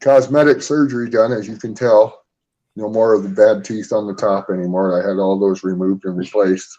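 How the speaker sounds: numb mouth, trouble talking; numb from the dentist. Real, not acted. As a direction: talk through a swollen numb mouth. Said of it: "My mouth is numb, you guys, so I'm having trouble talking".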